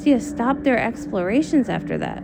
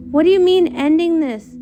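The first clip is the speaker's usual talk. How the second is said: louder, alarmed demand; shocked protest; 3 semitones higher, 5 dB louder than usual. Acted. Celestia protesting as the portal is sealed, alarmed and loud. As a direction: push back hard, stunned and upset. Sister objects to ending the travels.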